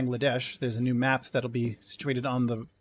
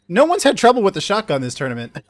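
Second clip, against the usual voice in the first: laughing sarcasm; 5 semitones higher, 7 dB louder than usual. Real, not acted. Sarcastic joke about shotgun.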